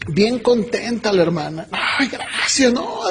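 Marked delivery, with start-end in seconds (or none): 1.7-2.7 slow, high mock-weepy gratitude; imitated tearful thanks. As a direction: imitate a happy woman crying her thanks. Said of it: "Y llorando". (gracias llorosas imitadas, lentas y agudas)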